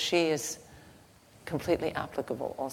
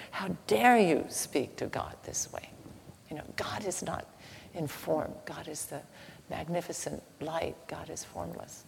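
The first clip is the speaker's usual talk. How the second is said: hissed, whispered scolding that fades softer; a stern prophet scolding under his breath; a touch of Moses' indignation, whispered; hushed rebuke; 2 semitones higher, 3 dB quieter than usual. Acted.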